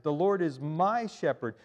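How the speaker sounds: "my" leaned on in "The Lord is my shepherd"; stress on my. Shown as a demonstration. Preacher corrects the misquote, stressing "my". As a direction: say it personal, weight on "my". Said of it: "David personalizes it".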